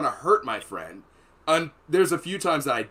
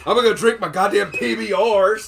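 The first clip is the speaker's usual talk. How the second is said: sulky grumble; 7 semitones higher, 8 dB louder than usual. Retold or imitated. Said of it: "I'm like".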